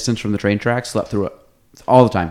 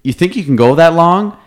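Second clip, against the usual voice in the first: quoting Michael; 3 semitones higher, 5 dB louder than usual. Retold or imitated. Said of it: "And he goes".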